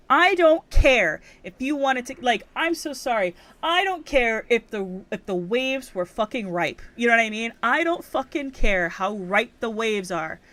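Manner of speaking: slow, emphatic ranting; worked up. Real, not acted. Scolding a friend-flaking surfer, worked up. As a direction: lay down the law, getting heated. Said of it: "I'm getting worked up".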